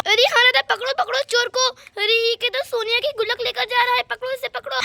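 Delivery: startled woman's voice, urgent; alarmed women. Acted. Two women woken to catch the thief, alarmed. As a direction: raise the alarm and give chase.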